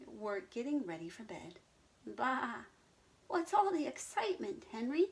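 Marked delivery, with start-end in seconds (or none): 2.1-5.1 high bleating voice; bleating sheep. Acted. Sheep asking Henry about the fuss, bleating. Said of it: "they bleated".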